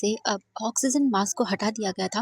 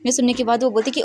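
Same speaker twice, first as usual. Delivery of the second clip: ordinary delivery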